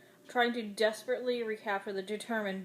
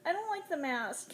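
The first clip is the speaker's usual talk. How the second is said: muttered; 9 semitones higher than usual. A narrator's reading. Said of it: "he muttered".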